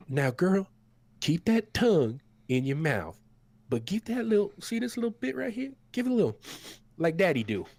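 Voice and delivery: high, loud folksy coaxing; cook coaxing his dog. Acted. The cook shows his dog Margaret the wound, coaxing. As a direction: coax the dog like a proud owner. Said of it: "And he goes".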